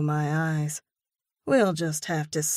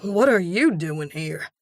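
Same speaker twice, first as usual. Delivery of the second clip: startled man; 4 dB louder than usual. A narrator's reading. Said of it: "Jasper goes bug-eyed".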